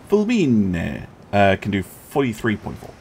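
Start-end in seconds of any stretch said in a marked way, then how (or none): 0.1-1.1 Fulmine said as fool-MEE-neh in a bad Italian accent; terrible Italian accent. Shown as a demonstration. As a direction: try a clumsy Italian accent on Fulmine, ending in an open eh. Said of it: "Apologies for the terrible Italian accent".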